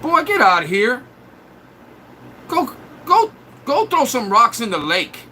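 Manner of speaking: a hint of a fed-up mother; mock scolding mom.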